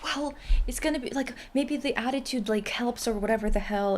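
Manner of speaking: a light impression of a rambling grandpa; imitating grandpa. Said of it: "And he was like".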